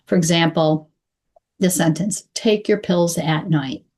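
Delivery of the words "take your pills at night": "Take your pills at night" flowing slowly, words joined; connected words. Shown as a demonstration. Coach giving a sample sentence for patients, connected words. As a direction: link each word into the next, unhurried. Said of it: "connect your words".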